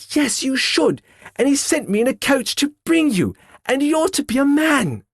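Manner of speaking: put-on gleeful little girl. Fan telling her brother he can come home, gleeful. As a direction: tell him the good news in a rush of joy. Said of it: "brimful of glee".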